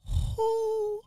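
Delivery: high, slow, stunned questioning; shocked disbelief. Retold or imitated. Player reacting to a surprise sim baby, high slow disbelief. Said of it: "I sat up and I said to myself".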